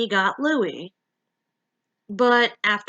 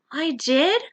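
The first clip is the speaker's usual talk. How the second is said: hopefully; 5 semitones higher than usual. Acted. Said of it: "Mimi asked hopefully".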